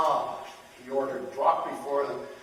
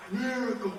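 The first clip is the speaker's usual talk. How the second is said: high cries building louder; awed acclaim; 10 semitones higher, 9 dB louder, slower than usual. Acted. Nobles acclaiming the unharmed neck, awed cries. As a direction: proclaim it louder each time.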